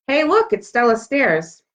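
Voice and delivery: slow, teasing sneer; mocking taunt. Mean girl teasing Stella in front of everyone, slow and mocking. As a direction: draw it out to mock her.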